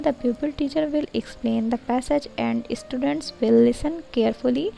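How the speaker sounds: very slow, word by word, as if dictating notes; slow dictation read. Shown as a demonstration. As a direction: read it out slowly so students can copy. Reads lesson plan text aloud. (धीमी, शब्द-दर-शब्द dictation वाली पढ़ाई)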